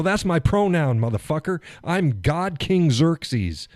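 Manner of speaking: slow, grand self-proclaimed god king; booming god king. Retold or imitated. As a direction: pronounce it slowly, full of vanity. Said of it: "That's why I go".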